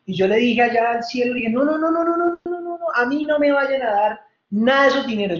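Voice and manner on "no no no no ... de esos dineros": high, rapid string of no's; frantic refusal. Retold or imitated. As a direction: wave the offer away in a panic. Rebbe refusing the money in heaven.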